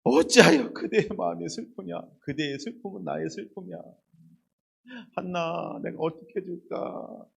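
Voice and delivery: quiet, tender "한나, 내가 어떻게 해줄까?"; soft tender husband. Retold or imitated. A husband softly comforting his sad wife Hannah, quiet and tender. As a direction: murmur it gently, like a loving husband. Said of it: "세 번째 뭐라고 얘기해요".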